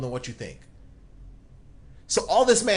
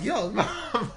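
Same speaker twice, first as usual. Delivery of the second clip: laughing; 8 semitones higher than usual. Real, not acted. Host laughing mid-quote.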